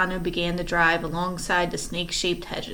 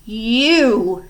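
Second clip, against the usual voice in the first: shocked accusation; 3 semitones higher, 9 dB louder than usual. Acted. Violet confronts Stefano.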